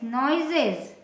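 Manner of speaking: नॉइजेस as "noy-zez" with a buzzing z ending; teaching pronunciation. Shown as a demonstration. Teacher showing the class a plural, said clearly. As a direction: model नॉइजेस carefully. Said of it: "इसका उच्चारण ज होगा".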